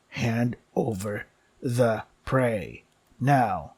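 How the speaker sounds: slow, looming demand from a hungry giant cat; menacing cat. Acted. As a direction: drag each word out like a predator's threat.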